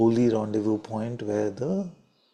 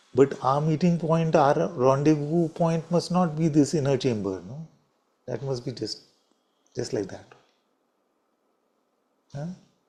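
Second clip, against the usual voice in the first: dry, mocking, sarcastic tone; 4 semitones higher than usual. Urging brothers and sisters about the heart's inner chamber: sarcastic. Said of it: "sorry if I'm sounding too, uh, sarcastic".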